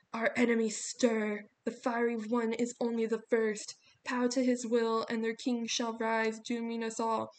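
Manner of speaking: slow, loud booming oracle; grinding stone statue, commanding; echoing statue voice. A narrator's reading. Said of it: "It spoke in the same echoing voice".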